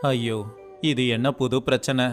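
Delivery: ordinary delivery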